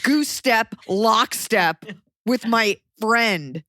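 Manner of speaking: sarcastic reply to the airport guard; mock apology. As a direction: needle her with fake politeness. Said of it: "I was like".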